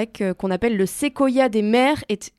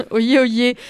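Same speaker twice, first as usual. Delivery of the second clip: town crier; 4 dB louder than usual. Pretend. Echoes co-host's crier call.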